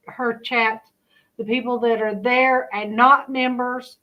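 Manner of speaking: speaking without dentures; talking with missing teeth. Real, not acted. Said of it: "I forgot to put my teeth in".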